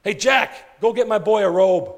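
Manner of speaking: eager, rising father calling out; a father overjoyed to see his son; joyful father. Acted. Father welcoming his lost son home, excited and loud.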